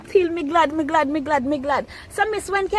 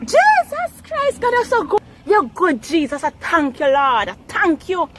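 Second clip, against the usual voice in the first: joyful praise. Real, not acted. Mother praising God over money.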